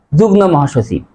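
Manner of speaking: যুগ্ম as "jugno" before মহাসচিব; common mispronunciation. Retold or imitated. Teacher quotes the common title, mispronouncing যুগ্ম with an n. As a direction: swap m for n in যুগ্ম. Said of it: "অনেকে উচ্চারণ করে".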